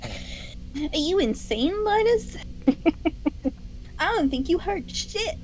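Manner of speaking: high, slow, disbelieving outburst; shocked and scornful; incredulous. Acted. In-character disbelieving outburst at Linus.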